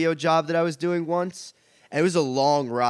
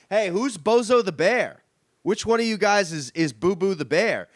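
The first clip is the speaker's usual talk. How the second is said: puzzled call-out; 4 semitones higher, 4 dB louder than usual. Retold or imitated. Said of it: "looking around the locker room like".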